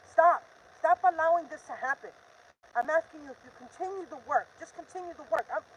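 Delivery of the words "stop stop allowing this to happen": sharp, loud stop; angry command. Real, not acted. Pleading with agents to stop evidence cover-ups, loud and angry. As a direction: slam it down like an order. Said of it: "I'm just so pissed".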